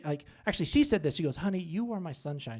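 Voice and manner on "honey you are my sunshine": soft, tender imitation; hushed, affectionate endearment; imitating sweet wife. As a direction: coo it gently as a loving wife. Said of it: "I was so sweet".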